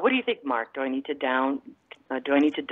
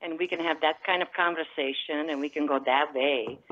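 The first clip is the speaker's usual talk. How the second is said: light Croatian-Italian accent; mother's foreign accent. Shown as a demonstration. Telling the host how calls could go, foreign accent. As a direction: keep up the put-on foreign accent. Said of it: "I do have a foreign accent".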